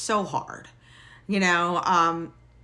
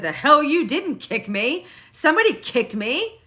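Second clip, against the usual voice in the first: insistent retort; 7 semitones higher, 5 dB louder than usual. Retold or imitated. Insisting to her husband that someone kicked her, loud. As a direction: refuse to back down. Arguing with husband after fall.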